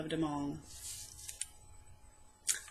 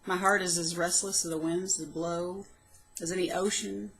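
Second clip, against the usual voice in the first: measured, heartfelt poem recital; poem reading. Acted. Poet reading her old poem aloud, heartfelt recital. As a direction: read it like a private diary poem.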